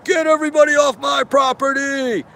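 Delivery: a hint of an irate owner barking; retold shout. Man ordering everyone off his property, lightly acted angry shout. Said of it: "this guy says".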